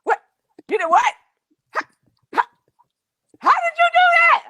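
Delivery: high, loud incredulous husband; disbelieving husband. Retold or imitated. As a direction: demand answers in shock. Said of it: "husband voiced disbelieving".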